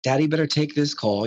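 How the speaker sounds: put-on jokey dad aside to the kids in the van; light joke. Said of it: "I make a light joke out of it".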